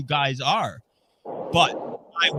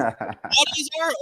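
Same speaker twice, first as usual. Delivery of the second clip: surprised; 11 semitones higher, slower than usual. Real, not acted. Hears they all play Magfed.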